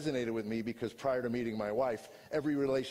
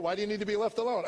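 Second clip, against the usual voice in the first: pressing wife; 11 semitones higher, 5 dB louder, faster than usual. Retold or imitated. Wife pressing him in argument.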